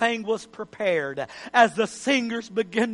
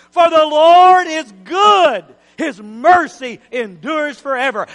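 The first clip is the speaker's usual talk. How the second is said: slow, loud chant, much higher; loud call and response; 5 semitones higher, 11 dB louder than usual. Acted. Preacher leading congregation in loud slow chant. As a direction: lead the church in it, full voice. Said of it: "Can you say it with me?".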